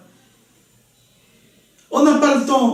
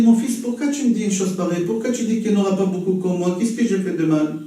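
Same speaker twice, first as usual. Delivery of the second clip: gentle question; 2 semitones lower, 4 dB quieter, faster than usual. Acted. Hillel demande calmement.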